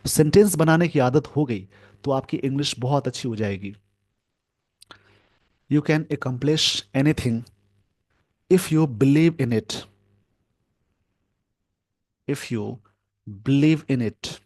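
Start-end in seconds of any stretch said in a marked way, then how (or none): 5.7-14.3 slow, word by word, as if writing it out; slow dictation. Shown as a demonstration. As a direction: spell the sentence out slowly for students to copy. Teacher dictating an example sentence.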